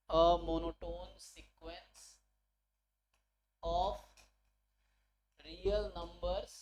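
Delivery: very slow, spaced-out dictation; word by word, with long pauses for writing. Real, not acted. Teacher dictating the theorem statement to students, slow dictation. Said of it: "word to word लिख के बता रहा हूँ".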